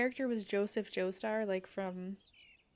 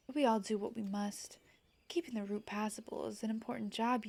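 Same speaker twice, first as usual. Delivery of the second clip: polite guard character. Acted. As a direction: read the quest giver's lines in a mild courtly tone. Reads game character dialogue aloud.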